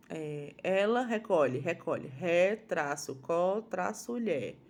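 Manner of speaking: slow, drawn-out syllables, "ré, traço, có, traço, lhé". Shown as a demonstration. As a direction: spell out "recolhe" slowly for children. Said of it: "soletrando sílaba por sílaba devagar". (soletrando "recolhe" devagar, sílaba por sílaba)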